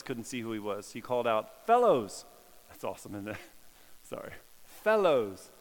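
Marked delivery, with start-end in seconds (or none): 1.7-2.2 loud, higher call across the water. Acted. Jesus calling out from the beach to the disciples, loud and high. 4.6-5.5 loud call across the water, a little higher. Acted. Jesus hailing the fishing disciples from the beach, loud. Jesus calls out again, retold.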